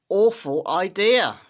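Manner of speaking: breathy wicked whisper, stretched slowly; conspiratorial villain whisper; sly whisper. Acted. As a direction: hush it like a delicious secret. Grinch's wicked idea.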